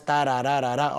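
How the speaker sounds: "tarararara" run along in an even pulse; regular rhythm. Shown as a demonstration. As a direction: rattle the metre out on "tarararara". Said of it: "No todas es". ("tarararara" con pulso parejo)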